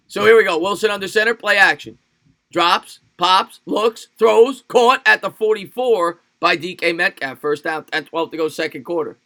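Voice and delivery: punched verbs, then settling into the game clock; play-by-play call. Pretend. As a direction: call the catch like a sportscaster. Mock live game call.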